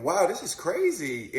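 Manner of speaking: high, loud and slow, wide-eyed wonder; a boy hearing he survived a broken neck, awestruck; amazed kid. Retold or imitated. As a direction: marvel at it like a kid.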